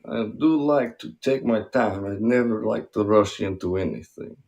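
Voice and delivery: Russian accent played for a pun. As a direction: keep up a joking Russian accent. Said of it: "That's a good Russian accent".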